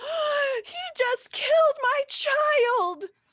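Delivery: very high, shrill, loud shriek. Narrating a scene, voicing a mother whose child got caught in it: shrieking mother. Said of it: "a mother shrieks and says".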